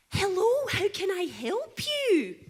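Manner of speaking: a hint of a Spanish-accented receptionist. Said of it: "She's all like".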